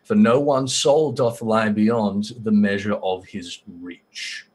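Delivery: slow, portentous prophecy reading; solemn verse recital. Acted. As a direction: recite it slowly like a grave prophecy, sinking at the close. Reads a verse aloud.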